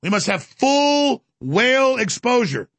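lightly voiced pompous royal; mock Prince Charles posh. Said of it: "He's trying always to sound like Prince Charles".

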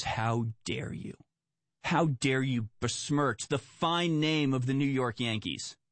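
느리게 과장된 분노를 흉내 내듯; slow, hammed-up outrage, lightly voiced; mock indignant manager. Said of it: "the general manager goes".

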